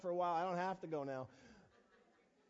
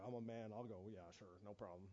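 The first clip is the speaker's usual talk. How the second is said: mock bravado; 13 semitones lower, 12 dB quieter than usual. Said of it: "And I'm like".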